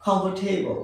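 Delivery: "কমফোর্টেবল" said as "KUM-pf-tay-bl"; correct pronunciation. Shown as a demonstration. Teacher giving learners the proper form, "কমফোর্টেবল" as KUM-pf-tay-bl. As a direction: say "কমফোর্টেবল" with short middle, aspirated t, soft final l. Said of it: "কি?".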